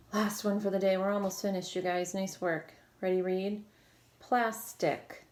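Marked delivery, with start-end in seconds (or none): 4.2-5.2 "Plastic" in two drawn-out syllables, plas, tic; split into syllables. Shown as a demonstration. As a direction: break "Plastic" between S and T. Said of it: "between the S and the T".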